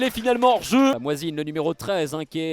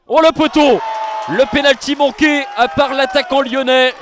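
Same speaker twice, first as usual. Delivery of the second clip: excited shout. Real, not acted. Missed penalty called live.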